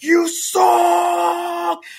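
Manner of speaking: high, loud jeering heckle; mock heckler. Imagining everybody mocking her work, loud jeering voice. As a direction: jeer like an imagined crowd. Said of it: "everybody's gonna be like".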